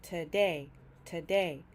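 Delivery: "today" as two clear sounds, stress on "day"; two syllables. Shown as a demonstration. Teacher showing learners the two sounds in today, two syllables. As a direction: say "today" with a short first sound and a strong "day". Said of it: "is two sounds".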